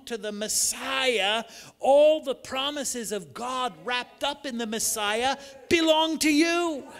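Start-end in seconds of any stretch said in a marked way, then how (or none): 1.8-6.9 rising preach. Acted. Preaching climax.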